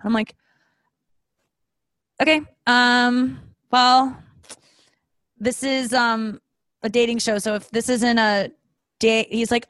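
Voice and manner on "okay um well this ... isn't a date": slow, pointed explaining with pauses; slow patient explaining. Retold or imitated. Explaining to a date that this is a dating show. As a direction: spell it out slowly for him. Retelling what she told him.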